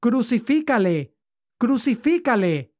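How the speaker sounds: crowd shouting. Acted. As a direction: hammer the demand twice as the crowd. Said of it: "volvieron a dar voces".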